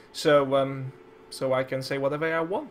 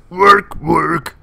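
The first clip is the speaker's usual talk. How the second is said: loud gruff Warcraft peon; 13 dB louder than usual. Pretend. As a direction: bellow it like a tired orc worker. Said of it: "I can do awesome peon voice".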